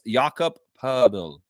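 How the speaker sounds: slow, careful "Jakob Poeltl", Austrian vowel in Poeltl; Austrian pronunciation. Shown as a demonstration. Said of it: "you don't know how to pronounce Austrian names".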